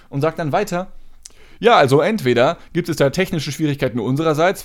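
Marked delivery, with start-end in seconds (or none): 1.6-4.6 customer service voice. Retold or imitated. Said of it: "so übertrieben freundlich".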